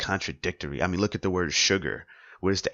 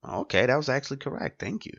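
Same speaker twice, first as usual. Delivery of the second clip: pleasantly surprised; 7 semitones higher than usual. Acted. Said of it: "see the actress or actor go".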